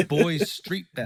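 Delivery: slow, laughing reversed band name; laughing, said backwards. Shown as a demonstration. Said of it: "Say it backwards".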